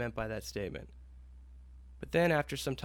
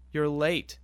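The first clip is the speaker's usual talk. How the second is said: a touch louder, mild exclamation; exclaimed; 2 semitones higher, 4 dB louder than usual. Acted. Boss greets the late Ryan, mildly exclaiming. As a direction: call out "You're late" with light reproach. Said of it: "our boss exclaimed".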